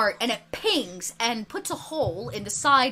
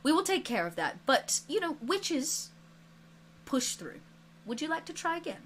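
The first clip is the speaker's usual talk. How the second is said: reassuring teacher; 3 semitones higher, 9 dB quieter than usual. Acted. Teacher reassures injured student.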